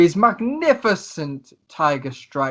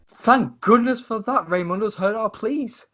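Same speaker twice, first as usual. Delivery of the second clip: relieved Tesla; 7 semitones higher than usual. Acted. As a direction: sigh out your gratitude in character.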